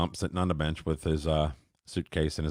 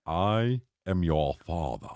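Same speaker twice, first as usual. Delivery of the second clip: Darth Vader line; slower than usual. Retold or imitated. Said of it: "All he really said was".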